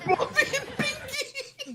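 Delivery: high, slow squealed names through laughter; mocking squeal. Mocking the show's snooty characters, in a high laughing squeal. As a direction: squeal the names like a giddy fan.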